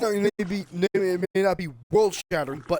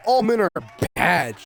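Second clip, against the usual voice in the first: "All" punched louder in a mock chant; mocking quote; 5 dB louder than usual. Vlogger mocks the feminist slogan, loud parody. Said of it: "The feminists going".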